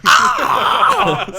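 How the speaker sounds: very high, very loud shriek; screaming high note. Pretend. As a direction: go all out on the top note. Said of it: "Goes ham".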